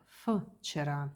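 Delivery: ф alone, then вчера opened on that same "f"; в pronounced as ф. Shown as a demonstration. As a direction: say вчера starting with an "f" sound. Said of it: "We hear like".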